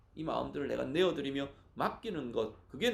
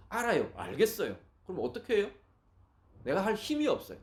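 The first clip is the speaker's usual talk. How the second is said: higher-pitched mock protest, mildly exasperated; helpless protest; 5 semitones higher than usual. Listener answering the preacher that they have no strength, helpless protest.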